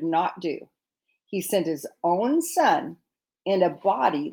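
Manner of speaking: measured, deliberate Bible reading; scripture reading. Acted. Wife reading Romans to the congregation, measured reading. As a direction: read the verses with weight and care.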